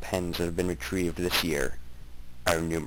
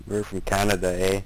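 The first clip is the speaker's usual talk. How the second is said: put-on Canadian accent. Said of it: "excellent Canadian accent you have there".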